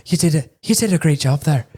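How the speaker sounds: a light, found Irish accent. Shown as a demonstration. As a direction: finally land the Irish voice. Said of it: "there it is".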